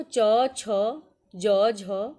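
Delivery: teacher loudly reciting a consonant group; loud letter recital. Shown as a demonstration. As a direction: call each letter out to the whole class. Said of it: "च वर्ग देखो".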